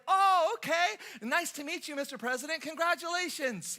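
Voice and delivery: high, loud and over-eager; gushing excitement. Acted. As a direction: gush at the president like a starstruck fan. Gushing visitors greet the president.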